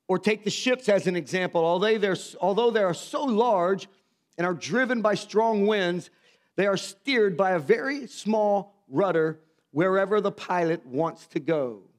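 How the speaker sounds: slow, measured reading of the verse; scripture reading. Acted. Preacher reading James to the congregation, slow and solemn. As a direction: read the text with weight, slowly.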